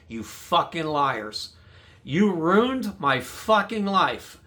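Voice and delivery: slow, bitter, seething retold rant; furious at the cops. Accusing the detectives to their faces, slow seething anger. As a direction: spit each word out at the lying cops. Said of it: "I was so furious".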